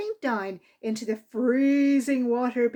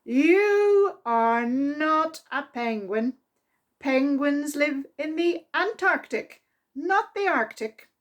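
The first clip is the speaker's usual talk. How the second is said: a fed-up man setting facts straight; stern correction; 3 semitones higher than usual. Acted. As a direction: correct him like a cross teacher.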